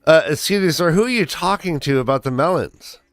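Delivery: lightly played puzzled customer; store customer. Acts customer in improvised store scene.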